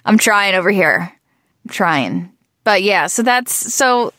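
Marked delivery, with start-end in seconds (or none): 0.0-2.3 groggy morning voice. Real, not acted. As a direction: talk through morning grogginess. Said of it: "like, groggy voice".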